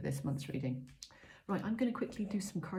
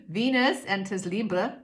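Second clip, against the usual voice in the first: put-on loud, higher Californian accent; 5 semitones higher, 8 dB louder than usual. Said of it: "a Californian accent".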